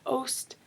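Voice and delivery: "ost" sounded as one chunk with long O. Shown as a demonstration. Teacher modelling the word ending, "ost" with long O. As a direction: sound out "ost" with the O saying its name. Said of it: "that long O sound".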